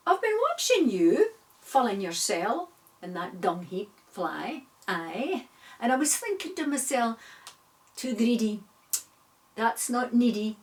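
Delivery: a watchful spider scolding a greedy fly; sly spider. Acted. Spider calling out to the greedy fly, sly scolding voice.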